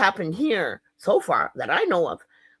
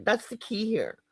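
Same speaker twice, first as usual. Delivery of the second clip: whispered aside; 3 semitones higher, 6 dB quieter than usual. Real, not acted. Aside after "divide and conquer.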